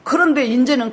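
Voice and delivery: normal talking voice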